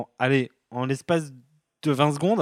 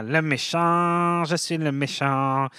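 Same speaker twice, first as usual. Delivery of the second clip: hammy villain; slower than usual. Retold or imitated. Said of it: "Alors il est là".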